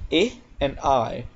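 first "I" short as in fit, second "I" as eye; two I sounds. Shown as a demonstration. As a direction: contrast short "I" with long "I". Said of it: "It only has two sounds".

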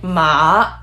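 MA dipping low, then rising; exaggerated scoop on MA; squiggly down-and-up. Shown as a demonstration. Teacher showing the textbook third tone, down and up. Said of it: "down and up".

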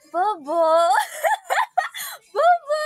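loud, high laughing bobo; laughing shout. Shown as a demonstration. Showing the cute Indonesian word, loud laughing shout. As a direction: blurt it out and crack up. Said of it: "in a cute way is".

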